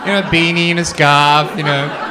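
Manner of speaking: giggling as he lists it; laughing while telling. Real, not acted. Comic describing his ski outfit, laughing.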